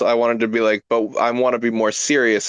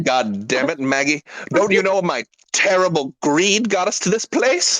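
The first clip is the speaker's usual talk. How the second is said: femme fatale; 7 semitones higher than usual. Acted.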